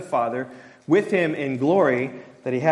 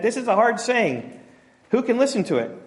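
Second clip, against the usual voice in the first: higher, mock complaining disciples; grumbling disciples; 7 semitones higher than usual. Preacher voicing disciples complaining about Jesus' words. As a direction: voice the grumbling followers.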